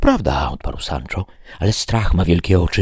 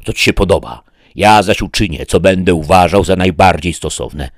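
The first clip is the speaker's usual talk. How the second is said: louder, indignant rebuke; indignant knight; 3 semitones higher, 6 dB louder than usual. Acted. Don Quixote rebukes Sancho for talk of sleeping, louder and indignant. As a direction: scold him for suggesting sleep.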